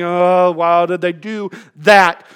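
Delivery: mock exasperation, slow and drawn out; angry sighing. Impatient person blowing their hair out, angry sighing. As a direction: imitate someone huffing at others. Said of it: "sighing, angry, blowing their hair out".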